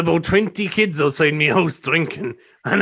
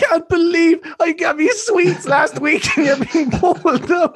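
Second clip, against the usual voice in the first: emotional teacher; slower than usual. Retold or imitated. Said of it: "she used to be like".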